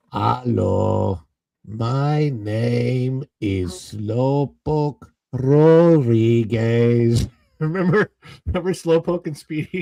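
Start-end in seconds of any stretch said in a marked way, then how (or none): 0.1-7.2 put-on cartoon mouse voice, much slower. Recalling cartoon mice with a friend, the speaker does a Slowpoke Rodriguez voice. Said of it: "slowest mouse".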